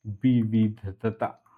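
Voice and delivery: विविधता drawn out very slowly; विविधता at dictation pace, each syllable held. Shown as a demonstration. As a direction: sound out विविधता in separate slow syllables. Teacher spells out term slowly.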